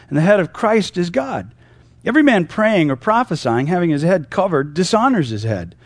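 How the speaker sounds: measured read-aloud with emphatic pitch swings; Scripture reading. Acted. Preacher reads Paul's verses to the church, measured Scripture reading.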